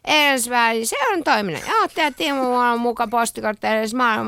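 put-on mildly slurred, giggly tipsy teenager; drunk teen. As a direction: stumble through the words like a drunk teen. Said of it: "lukisit humalaisena teininä".

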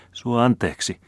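high, begging plea; a young sister's high pleading. Acted. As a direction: beg him for forgiveness. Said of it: "rukoili tyttö".

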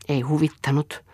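"Ei huvittanut" whispered with no voice. Acted. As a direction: breathe "Ei huvittanut" as a bare whisper. Narrator echoes Eero's mood.

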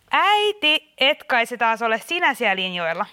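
sharp warning call to a meddling parent; suspicious exasperation. Acted. Host suspects mother again.

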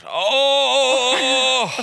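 high drawn-out fake moan; teeskennelty orgasmihuuto. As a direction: cry out in mock ecstasy, long and high. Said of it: "niin huudat sit". (teeskennelty kova voihkaisu)

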